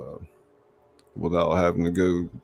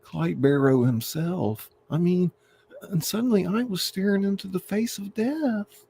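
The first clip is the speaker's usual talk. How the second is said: high, breathless hammed-up guard telling his tale; high melodramatic bank guard interview; dramatic bank guard; 12 semitones higher than usual. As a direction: play the shaken guard for the reporter.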